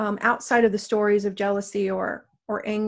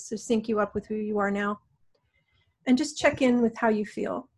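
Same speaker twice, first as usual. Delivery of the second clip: guided meditation. Acted. Guides a healing session.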